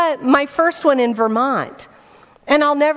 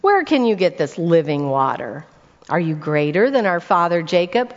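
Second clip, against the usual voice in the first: sarcastic; 5 semitones lower than usual. Acted. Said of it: "Can you hear a little bit of sarcasm in there?".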